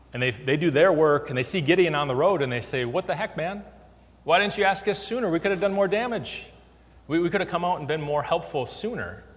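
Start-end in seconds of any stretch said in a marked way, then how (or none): 2.9-9.2 high, pushy whine of a left-out tribe; mock-indignant griping; indignant complaint. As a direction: gripe at Gideon like offended teammates. Ephraimites complain to Gideon, acted.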